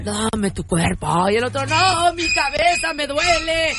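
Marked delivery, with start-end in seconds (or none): 0.0-1.3 low slow seductive demand. Acted. 1.6-3.7 high slow whiny refusal. Acted. Husband refuses.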